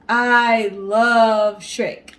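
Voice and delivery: gushing fan. Acted. Repeated drawn-out declaration.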